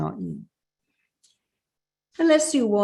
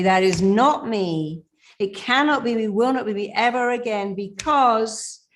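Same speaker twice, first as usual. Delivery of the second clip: higher, louder, emphatic declaration; powerful affirmation; 4 semitones higher, 3 dB louder than usual. Shown as a demonstration. Coach modeling the second scene's affirmation, louder and higher. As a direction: declare it with conviction. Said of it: "Do it with power and conviction".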